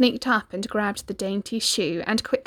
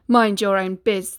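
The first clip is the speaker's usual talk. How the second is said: curt reply; 5 dB louder than usual. Acted. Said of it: "the prince replied".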